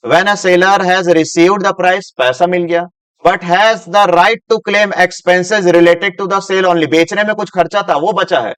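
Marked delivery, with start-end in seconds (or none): 0.1-2.1 slow, deliberate dictation reading; slow classroom read-aloud; reading slowly. Shown as a demonstration. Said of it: "धीरे धीरे पढ़ता हूं". 3.3-6.9 slow, deliberate dictation reading; slow classroom read-aloud; reading slowly. Shown as a demonstration. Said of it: "धीरे धीरे पढ़ता हूं".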